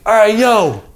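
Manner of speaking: loud, high hype-man call; hyping the crowd. Retold or imitated. Skater at a party hyping the crowd before freestyling, loud and high. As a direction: pump the room up like an MC.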